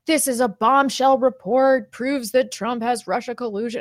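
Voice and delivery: mocking excited leftist. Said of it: "leftist Twitter and everybody's like".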